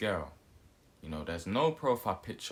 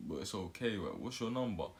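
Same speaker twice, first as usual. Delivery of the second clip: lightly deepened, softer Batman act; put-on deep voice; 3 dB quieter than usual. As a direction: try to sound deep while asking smoothly. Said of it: "I'm talking with a deep voice".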